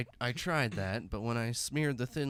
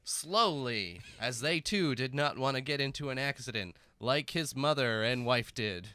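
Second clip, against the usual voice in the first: narrator voice; 2 semitones higher than usual. Acted. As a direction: narrate like a movie trailer. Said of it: "Nar-, narrator voice".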